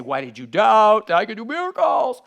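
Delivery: a wrong-reading Jesus line; the preacher imitating Jesus. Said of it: "He didn't say".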